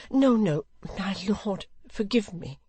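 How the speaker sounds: high, urgent widow's plea; imploring. A narrator's reading. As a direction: beg his lordship's forgiveness. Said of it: "implored the widow".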